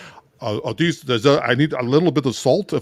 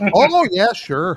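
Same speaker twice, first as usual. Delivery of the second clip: higher-pitched Wisconsin accent; 8 semitones higher, 3 dB louder than usual. Imagining Jackie Mason had grown up in Wisconsin: Jackie Mason with Wisconsin accent. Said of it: "what would Jackie Mason's accent?".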